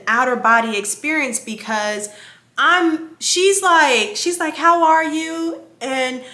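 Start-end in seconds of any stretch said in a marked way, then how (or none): 4.6-5.6 slow, higher imitated greeting; lightly mimicked caring check-in; happy doctor's greeting. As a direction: draw it out like a friendly doctor. Repeating the happy doctor's question.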